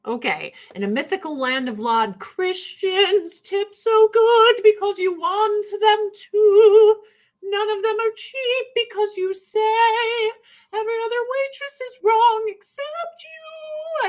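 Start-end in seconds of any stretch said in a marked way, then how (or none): 2.2-14.1 mocking Christian customers. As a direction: lay the sarcasm on thick in a sing-song customer voice.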